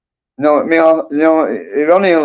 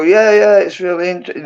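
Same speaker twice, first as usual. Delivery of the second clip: higher-pitched dismissive agreement; feigned interest; 5 semitones higher than usual. Retold or imitated. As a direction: humour someone with mock enthusiasm.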